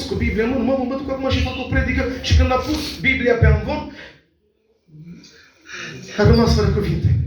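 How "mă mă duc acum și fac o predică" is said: quick, cocky boast of a proud brother; mock swagger, slightly hurried; boastful. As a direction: puff your chest and brag, fast. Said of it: "cu pieptul scos".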